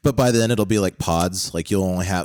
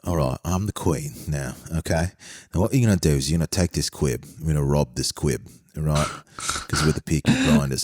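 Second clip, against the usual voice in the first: a lightly lowered, gangster-ish British voice meant as the Queen; mock Queen impression; 3 semitones lower than usual. Joking to co-host, doing the Queen as a gangster, lightly voiced. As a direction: play the Queen as a London street hood, barely changed. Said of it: "here's my Queen impersonation".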